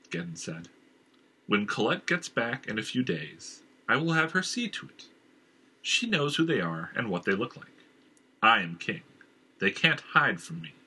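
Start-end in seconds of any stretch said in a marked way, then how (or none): 1.5-10.7 a king dismissing his inner voice, rising in pitch; hint of a commanding king; lightly voiced stern king. King asserts his power.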